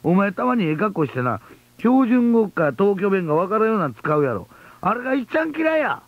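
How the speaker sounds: angry letter voice. Retold or imitated. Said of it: "こっち怒ってるんですね".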